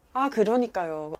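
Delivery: slow, drawn-out brush-off agreement; long drawn, noncommittal; non-committal agreement. Acted. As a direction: stretch out a vague agreeing reply. Demonstrates polite non-committal stock reply.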